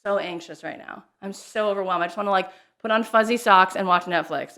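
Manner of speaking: understated mock overwhelm; mock overwhelmed post. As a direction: sigh it out like a tired post. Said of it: "I'll be like".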